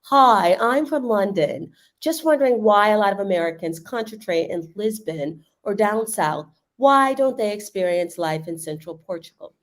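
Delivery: reading it out in a clumsy mock British accent; bad British accent. Reading a viewer's question aloud to the co-host, in a mock British accent. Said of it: "I'm trying to do that in a British accent".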